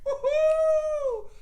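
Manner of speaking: loud, high jeering whoop; mock provocation, shouted and whooped up high; taunting shout. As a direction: holler the taunt to rile him up. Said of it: "I would have said".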